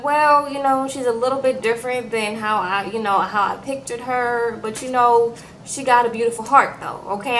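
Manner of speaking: mock Nigerian accent, diplomatic; imitating a Nigerian accent, choosing words carefully; a light Nigerian accent, tactful. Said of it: "my Nigerian accent".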